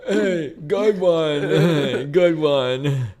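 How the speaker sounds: sarcastic good one. Real, not acted. Sarcastic slow praise.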